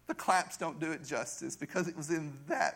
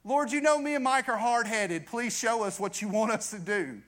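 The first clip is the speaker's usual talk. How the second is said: slightly raised imitation of prayer; wife praying; 3 semitones higher than usual. Wife asking the Lord for direction, lightly imitated prayer. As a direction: lightly mimic a wife's plea to God. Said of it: "this is my wife praying".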